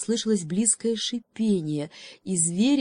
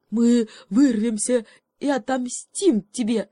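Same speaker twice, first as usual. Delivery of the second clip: shouted; 5 semitones higher, 6 dB louder than usual. Acted. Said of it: "крикнул осёл".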